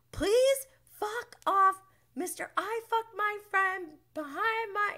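mock Lala. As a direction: ham up Lala's snotty comeback. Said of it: "Lala just goes".

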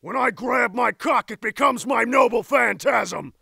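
projected voice-acting delivery; declaimed line. Actor on a fresh take of the line, declaimed. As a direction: proclaim it boldly.

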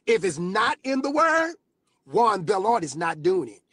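rising shout of conviction; shouted declaration. Real, not acted. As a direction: belt it out to the congregation.

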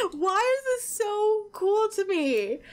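high, slow, near-tearful squeal; excited squeal. Real, not acted. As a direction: squeal with overwhelmed joy. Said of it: "screaming in your guys' ears".

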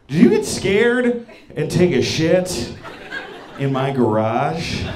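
slow, halting question; awkward careful question. Retold or imitated. Girl on the phone asks her date about the garage, slowly. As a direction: ask it gingerly, drawing the words out.

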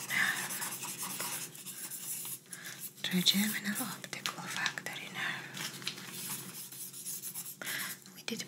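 gentle doctor whispering throughout; ASMR whisper. Acted.

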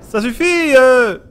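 sharp high cry of annoyance; exasperated shout; fed up yell. Real, not acted. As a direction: snap at the monsters to stop. Yelling at attacking monsters.

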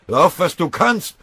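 very loud, high, slow yelled order; shout. Acted. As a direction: scream at him to run. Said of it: "schrie ihn der Frontkriegsrat an".

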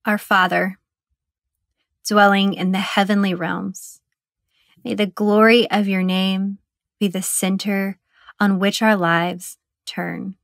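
measured, even prayer in short phrases; meditative prayer. Acted. Guide praying the Lord's Prayer for meditators, meditative prayer. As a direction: pray it reverently, pausing long between sections.

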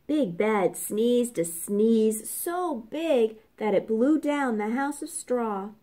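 plain reading voice

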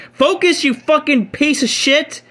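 cartoonish high-pitched mock fury; squeaky mock insult. Cursing the card again.

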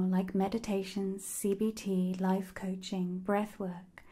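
recommend it in a hushed, even voice; gentle testimonial, lightly emphasised; ASMR ad read. Real, not acted. Reads a sponsor message.

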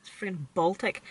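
talking while freezing cold. Real, not acted. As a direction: say it shivering in a cold car. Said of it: "I'm absolutely freezing".

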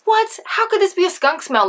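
high-pitched incredulous retort; exaggerated baffled teen; mock disbelief. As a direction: shoot up high, acting out bafflement. Retold disbelief at mom's verdict.

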